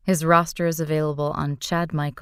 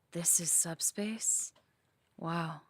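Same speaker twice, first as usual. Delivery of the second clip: hushed wonder; 13 dB quieter, slower than usual. Acted. Awed in subspace.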